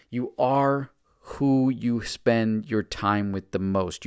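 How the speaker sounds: "you are who you spend your time with the most" said very slowly, each word weighted; slow, heavy stress on "who you spend your time". Shown as a demonstration. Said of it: "I can't stress this enough".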